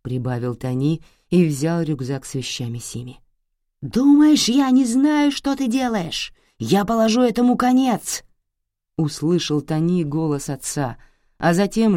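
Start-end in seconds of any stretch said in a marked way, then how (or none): 3.8-8.2 loud, much higher raging threat; furious shout. Acted. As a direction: yell through the house. Father shouting through the door.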